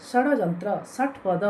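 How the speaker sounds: ଷଡ଼ଯନ୍ତ୍ର and ଷଟ୍ ପଦ with the tongue up at the roof of the mouth for ଷ; retroflex ଷ. Shown as a demonstration. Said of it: "ମୂର୍ଦ୍ଧା ଆଡ଼କୁ ଯେତେବେଳେ ସଟି". (ଷଡ଼ଯନ୍ତ୍ର, ଷଟ୍ ପଦ: ମୂର୍ଦ୍ଧାକୁ ଜିଭ ଲଗାଇ ମୂର୍ଧନ୍ୟ ଷ ଉଚ୍ଚାରଣ)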